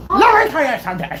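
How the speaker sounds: high, rushed "Let me tell you something", consonants lost; numb mouth. Retold or imitated. Patient to mom, numb-mouthed "Let me tell you something". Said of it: "with, like, a numb freaking mouth".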